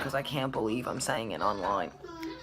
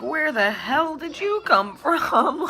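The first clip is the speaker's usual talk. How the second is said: high, slow, bewildered; like meeting a stranger; mock bewildered; 12 semitones higher, 6 dB louder, slower than usual. Mother and baby's mutual surprise.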